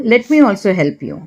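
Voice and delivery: very slow, every word laid out clearly; slow model phrase. Shown as a demonstration. Teacher slowly models an English apology for Hindi learners. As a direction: say it slowly so learners can repeat it. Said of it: "क्या बोल रही हूँ मैं यहाँ?".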